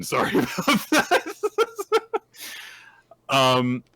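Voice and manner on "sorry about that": mock apology. The speaker apologizing in high voice.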